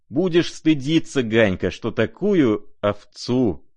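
high, emphatic cry of indignation; shouting. A narrator's reading. Rogozhin shaming Ganya over the prince, shouting. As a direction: cry out in reproach, drawing out the end. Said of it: "закричал Рогожин".

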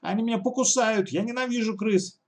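real fright. Acted. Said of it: "по-настоящему испугалась".

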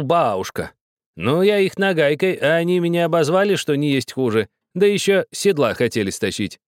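put-on high, pressing old woman's voice; insistent old woman. A narrator's reading. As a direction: insist like a stern grandmother.

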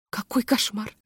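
soft, strained Какой кошмар; whispering. A narrator's reading. Hostess whispers in horror while smiling. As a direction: breathe Какой кошмар through a frozen smile. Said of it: "шептала хозяйка".

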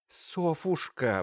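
a sister gently begging an angry sister; pleading. Acted. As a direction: stretch the name out, begging her to stop. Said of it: "взмолилась Ирина Лукинишна".

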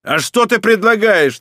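high loud retort; snapping back. A narrator's reading. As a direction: lose patience and snap. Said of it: "не выдержал Сандро".

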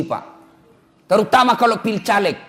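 ordinary delivery

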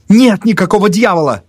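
high, loud denial; angry bark. A narrator's reading. Narrator answers his superstitious friend, barking. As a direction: bark it out to shut that down. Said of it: "рявкнул я".

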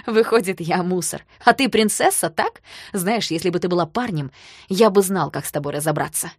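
loud, mocking sarcastic retort; mock her with a sneer; bitter sarcasm. Danya sarcastically hits back.

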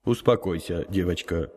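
put-on gentle, soft reassurance from an old sage; kindly. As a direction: soothe her like a kind elder. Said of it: "доброжелательно произнёс старец".

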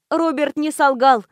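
ordinary delivery

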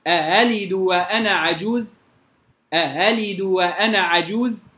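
lightly touch the second hamza of أألد; eased second hamza. Shown as a demonstration. Quran teacher reciting Warsh's tasheel to students. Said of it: "هو التسهيل ده وجه لورش".

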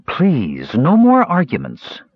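sharp. A narrator's reading. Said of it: "sharper than normal".

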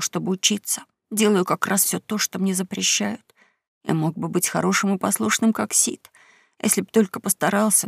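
softly tearful confession; quiet sobbing. Acted. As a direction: speak through quiet sobs. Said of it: "Том тихонько всхлипывал".

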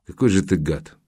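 mild, weary reproach; resigned sigh. Acted. Journalist to the photographer, mild sighing disgust. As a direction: let it out on a sigh, understated. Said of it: "вздохнул журналист".

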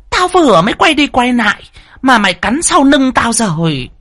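a cruel first wife berating the maid; angry mistress. A narrator's reading. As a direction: accuse the maid of betrayal.

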